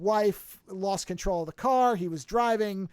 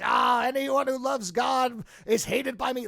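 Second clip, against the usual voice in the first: slow, raised mock shout; cursing God; 5 semitones higher than usual. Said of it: "starts cursing God and says".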